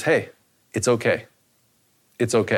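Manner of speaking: put-on calm a scared child; reassuring dad. Father soothes scared son.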